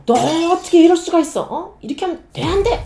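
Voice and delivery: loud, high angry parent scolding; mock furious parent. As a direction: snap at the child in a high, loud rage. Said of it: "화난 감정".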